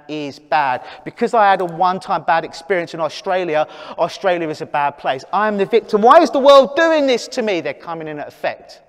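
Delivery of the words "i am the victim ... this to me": mock victim wail. Voicing client's victim mindset.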